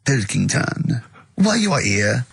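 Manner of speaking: lightly put-on French accent; hint at a French accent for the emperor. Roman emperor summoning the delivery boy, accidental French accent. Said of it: "I don't know why he's French".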